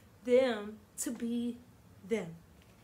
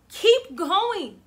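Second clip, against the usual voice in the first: "Keep going" lifted high and loud, KEEP punched; stress on keep; 8 semitones higher, 10 dB louder than usual. Shown as a demonstration. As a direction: cheer them on with a big KEEP. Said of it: "repeated refrain with varied force".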